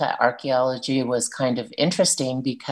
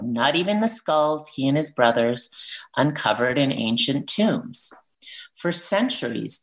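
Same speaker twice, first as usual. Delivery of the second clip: reading a picture book aloud; 2 semitones higher than usual. Acted. Author reading her book to the radio host's listeners, storybook voice. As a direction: read it like a children's story at story time.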